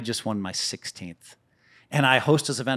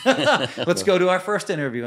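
cocky laugh; 7 semitones higher, 6 dB louder than usual. Retold or imitated. Teasing Tiger at event.

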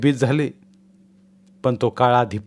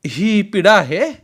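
raised voice; 8 semitones higher, 5 dB louder, slower than usual. A narrator's reading. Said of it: "सासूनं एकदम आवाज चढवला".

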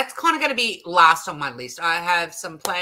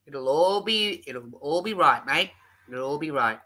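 laid-back Aussie reassurance; 5 semitones lower than usual. Shown as a demonstration. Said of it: "The Aussie life, laid back and calm".

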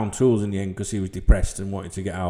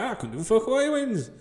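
mock dismissive retort; 5 semitones higher than usual. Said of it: "I was like".

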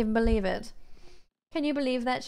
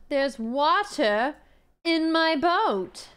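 mock dismay; 3 semitones higher, much slower than usual. Diva dismay at wet boat.

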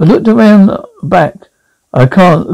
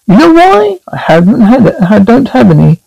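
dummy voice; 4 semitones higher than usual. Acted. Dummy joking about his lips.

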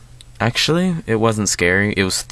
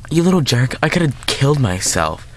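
higher, irritated sister's telling-off; lightly acted annoyed scolding; mock scolding; 6 semitones higher than usual. Sister to little brother across the hall, mock scolding.

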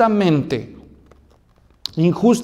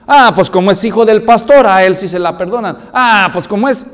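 mocking gossip; 6 dB louder than usual. Congregation gossip about pastor's son.

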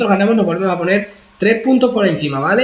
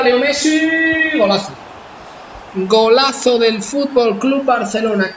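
excited goal call; 3 semitones higher, much slower than usual. Real, not acted. Messi scores against them.

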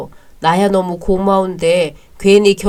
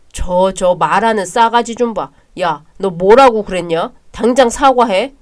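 angry demand; 5 dB louder than usual. Acted. Brother demands apology.

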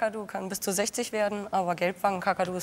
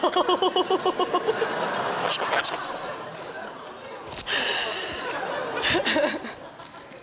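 long burst of laughter; 10 semitones higher than usual. Real, not acted. Bird lands on the wrong spot.

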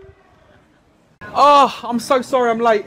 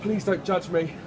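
being tickled; 3 semitones lower, 8 dB quieter than usual. Acted. Tickled, laughing.

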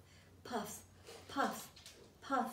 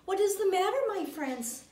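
kind question; 6 semitones higher, 3 dB louder than usual. Acted. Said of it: "she asked kindly".

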